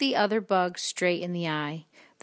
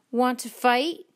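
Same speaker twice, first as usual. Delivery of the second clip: loud, slow, rising challenge; grouchy challenge; 6 semitones higher, 5 dB louder, slower than usual. A narrator's reading. Grouchy ladybug picking a fight, loud rising challenge. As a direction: dare them, voice raised and climbing.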